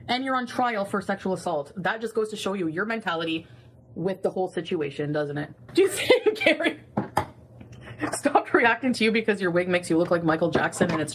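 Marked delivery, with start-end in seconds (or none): 0.1-5.5 quiet scorn. Real, not acted. Scolding drops to quiet.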